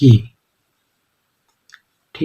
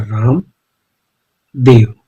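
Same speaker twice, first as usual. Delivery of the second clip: slow while writing; much slower than usual. Shown as a demonstration. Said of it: "shows how to write it".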